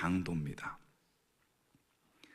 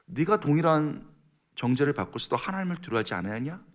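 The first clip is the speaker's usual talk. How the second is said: loud, higher scolding challenge; stern rebuke; 4 semitones higher, 6 dB louder than usual. Acted. Criminal scolding his fellow criminal, stern rebuke. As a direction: rebuke him forcefully, acted. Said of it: "그 사람을 꾸짖어 이르되".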